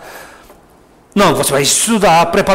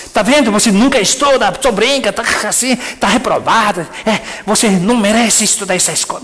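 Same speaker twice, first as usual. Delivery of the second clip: scolding parent; 3 semitones higher, faster than usual. Retold or imitated. Parent scolding child who failed school, mock annoyed. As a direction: nag the child with mild mock reproach. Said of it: "não fala assim".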